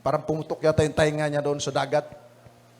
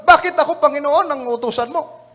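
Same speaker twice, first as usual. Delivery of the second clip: complaining "why me", higher and louder; mock protest; 8 semitones higher, 4 dB louder than usual. Preacher voicing someone balking at God's call, high and loud. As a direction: play the reluctant servant questioning God, high and loud. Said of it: "hindi siya nagtatanong".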